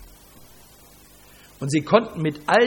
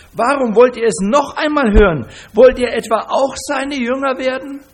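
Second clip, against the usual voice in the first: rising, louder, mocking challenge; defiant taunt; 6 semitones higher, 8 dB louder than usual. Healed man taunting the Pharisees, a mock-defiant challenge. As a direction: needle them with a pointed question.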